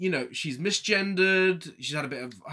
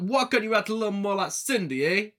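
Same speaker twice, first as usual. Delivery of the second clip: higher-pitched mock husband; hammed-up nagging husband, pitched up; exaggerated husband voice; 6 semitones higher than usual. Host mimicking the husband telling off his wife, exaggerated voice. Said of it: "he doesn't talk like that".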